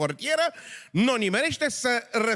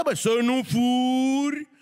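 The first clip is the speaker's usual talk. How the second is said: preaching boom; 3 semitones higher, much slower than usual. Shown as a demonstration. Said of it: "când o bași pe aia cu 'să nu furi'".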